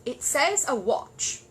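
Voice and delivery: very slow, earnest statement; matter-of-fact bear. Acted. Paddington quoting his instruction book, earnest. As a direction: insist innocently.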